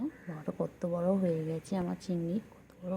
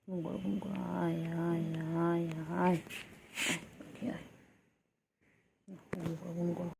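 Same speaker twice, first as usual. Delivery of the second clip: soothing lull; 4 dB quieter, slower than usual. Real, not acted. Lulling the bird to sleep.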